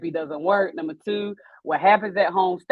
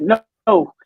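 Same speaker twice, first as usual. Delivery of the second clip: louder, higher stern self-command; telling herself off; 5 semitones higher, 8 dB louder than usual. Retold or imitated. To herself in the moment, a stern self-scold. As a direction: order yourself to stop crying. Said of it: "And I be like".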